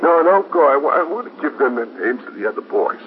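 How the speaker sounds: frantic, breaking plea not to be left; clutching at them so they stay; desperate pleading. Acted. Grieving father begs them stay.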